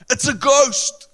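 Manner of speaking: high, loud cry of fear; terrified cry. A narrator's reading. Disciples in the storm, terrified shout. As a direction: cry out as if seeing a ghost.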